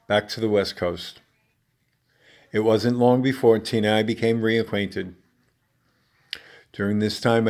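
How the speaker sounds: measured read-aloud with deliberate pauses; recited autobiographical stage monologue. Acted. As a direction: read your personal monologue to an audience, phrase by phrase. Reads own stage monologue.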